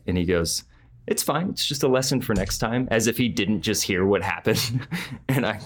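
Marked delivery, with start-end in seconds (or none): 1.1-2.9 higher-pitched, breezy brush-off; lightly put-on reassuring voice; mock nonchalance. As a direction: imitate an assistant acting as if nothing happened. Assistant pretending nothing happened.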